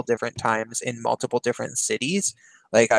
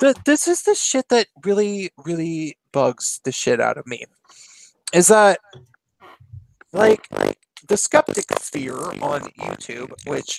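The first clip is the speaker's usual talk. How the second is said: staticky distorted connection; crackling mic; 4 semitones higher than usual. Real, not acted. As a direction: voice crackling through a bad mic. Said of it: "you're crackling up there".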